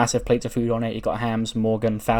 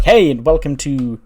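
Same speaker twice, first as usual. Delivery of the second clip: lively, raised-volume show intro; upbeat host greeting; 3 semitones higher, 6 dB louder than usual. Acted. Hosts welcome viewers to their mukbang channel, upbeat host greeting. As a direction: launch the video with a bouncy welcome.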